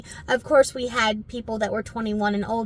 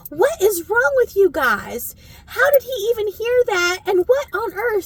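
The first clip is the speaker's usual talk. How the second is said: scolding; 2 semitones higher than usual. Retold or imitated.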